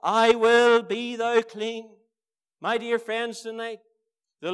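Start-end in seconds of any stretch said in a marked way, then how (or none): 0.0-2.0 slow, solemn, commanding declaration; voice of Jesus. Acted. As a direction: proclaim it slowly as the Lord's word. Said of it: "this is what the Lord Jesus said".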